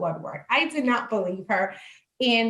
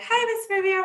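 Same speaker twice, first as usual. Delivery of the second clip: doctor's voice; 11 semitones higher, faster than usual. Retold or imitated. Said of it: "she's like".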